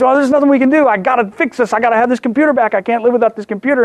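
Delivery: pleading with the wife to fix the computer, hammed-up frantic rush; retold frantic panic. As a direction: act out a mild panic over a broken computer. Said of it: "And I was just".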